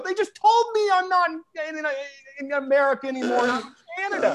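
mock-panicked shouting at the border guard; panicked protest. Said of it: "And I go".

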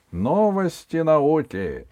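high, slow solemn announcer; parody news anchor. Acted. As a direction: announce it like a pompous newsreader. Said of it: "торжественным голосом диктора объявил Сергей".

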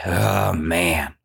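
low, acted sigh of boredom; bored groan. Bored shepherd boy sighing to himself, low groan. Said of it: "he felt bored".

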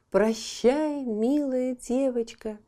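high bright chirped farewell; chirpy bird voice. Acted. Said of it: "прощебетала ласточка".

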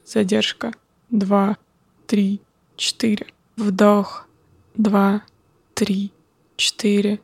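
calm, slow counting of breaths. Acted. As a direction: count the breaths slowly and calmly. Guides a breathing exercise.

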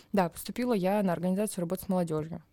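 ordinary talk, nothing marked

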